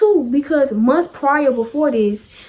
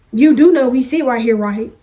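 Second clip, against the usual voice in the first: pointed, presumptuous seat claim; mock confrontational check, dropping on "right"; disrespectful; 3 dB louder than usual. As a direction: imitate a pushy classmate claiming a seat. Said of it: "if you coulda just came over here in a respectful manner".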